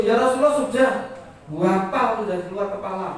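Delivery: loud, high, exasperated retort; impatient protest. Retold or imitated. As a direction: protest that you already know it. Acts out companion impatient at repetition. (protes tak sabar, suara tinggi dan keras)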